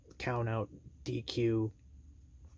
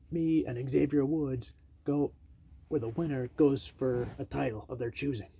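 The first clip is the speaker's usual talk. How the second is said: Morrison's pitch; 3 semitones higher, 4 dB louder than usual. Retold or imitated. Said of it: "Morrison cuts off Adam Pearce and says".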